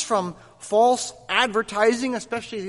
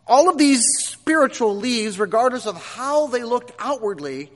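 raised preaching voice; 4 semitones higher, 5 dB louder than usual. Acted. Preacher builds to a point.

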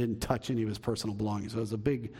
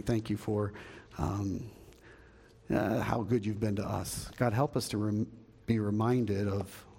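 prayer; 3 semitones lower than usual. Real, not acted. Pastor praying for the church after his sermon, prayerful. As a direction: lead the congregation in earnest prayer.

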